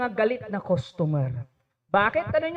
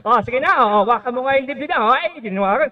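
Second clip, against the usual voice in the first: loud goading of schoolboys; egging on; 4 dB louder, much faster than usual. Retold or imitated. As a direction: hype up the fight like a teasing kid. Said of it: "may mga mangsusulsol".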